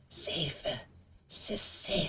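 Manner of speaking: put-on whisper. Describing a character climbing a tree to leave the fight: imitating her whisper. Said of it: "whisper to herself".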